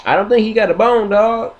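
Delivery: quick chattering defence; squirrel. Retold or imitated. Squirrel defending his friend, fast and high. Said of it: "And I was like".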